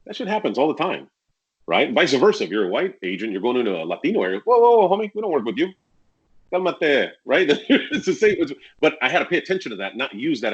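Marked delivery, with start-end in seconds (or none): none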